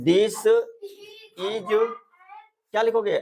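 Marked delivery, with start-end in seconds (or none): 0.0-1.9 high prompt. Acted.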